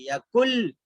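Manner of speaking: यकुल ending on l, not n; merged correction. Shown as a demonstration. Teacher correcting yakun, merged l. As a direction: close यकुल firmly on l. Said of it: "यकुन लहू नहीं पढ़ेंगे".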